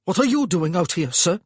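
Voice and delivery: loud, formal and cold; stiff question. A narrator's reading. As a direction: ask him stiffly, keeping distance. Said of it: "he asked stiffly".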